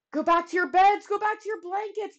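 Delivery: loud, high-pitched urgent call; crying out. A narrator's reading. Boy ordering everyone back to bed, crying out. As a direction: cry it out down the halls. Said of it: "Bartholomew Cubbins went crying through the halls".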